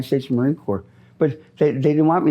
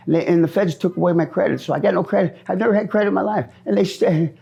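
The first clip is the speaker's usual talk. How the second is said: agitated rant; 6 semitones higher than usual. Real, not acted. Angry rant about the feds.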